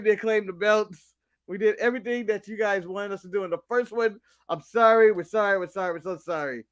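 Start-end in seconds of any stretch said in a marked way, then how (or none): 4.5-6.6 mock apology fading out.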